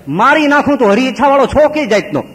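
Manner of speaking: loud, high furious threat; angry devotee. Retold or imitated. Devotee to the baba, loud furious threat. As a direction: shout it at the lazy baba.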